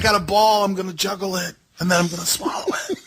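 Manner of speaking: mock Christy Hemme. Mocking Christy Hemme's stunts, in a high ditzy voice. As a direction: lampoon her like a circus barker.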